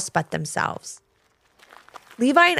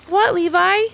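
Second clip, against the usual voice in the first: asking; 10 semitones higher, 4 dB louder, slower than usual. Acted. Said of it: "Ivy asked as she walked over".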